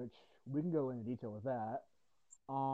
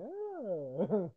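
put-on Jersey accent; 6 semitones higher than usual. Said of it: "not everyone from Jersey talks like that".

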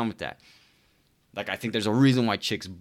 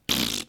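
low, short lip-puff scoff; dismissive pfft; 10 semitones lower than usual. Shown as a demonstration. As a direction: blow air through the lips in a scoff. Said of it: "How do you spell pfft".

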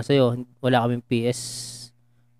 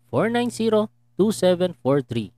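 lotto announcer; 3 semitones higher, slower than usual. Acted. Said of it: "parang announcer sa Lotto".

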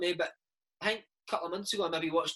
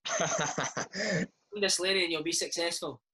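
laughing; much slower than usual. Real, not acted. Joking advice, laughing.

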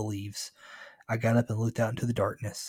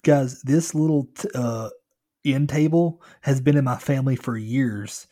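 Trent; 3 semitones higher, 6 dB louder than usual. Retold or imitated. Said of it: "think of this guy as Trent".

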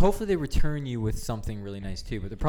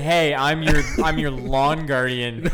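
mock proud lawn guardian; 3 semitones higher, 5 dB louder, slower than usual. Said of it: "She said".

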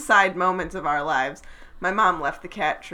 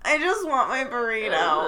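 mock whine; 5 semitones higher than usual. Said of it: "I actually said".

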